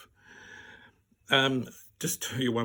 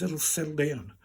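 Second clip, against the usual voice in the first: doctor's even, soothing line; reassurance; 2 semitones higher than usual. Retold or imitated. Doctor to the upset patient, reassuring. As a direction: settle the patient with an easy falling tone.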